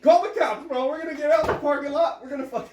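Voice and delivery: high, loud bro trash talk; hammed-up bro calling someone out; gym bro.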